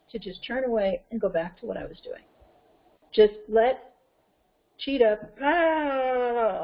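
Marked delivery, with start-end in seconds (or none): 5.4-6.6 long drawn-out mock yell "ah"; imitated yelling. Cheetah let loose, imitated yelling. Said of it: "yelling, yelling".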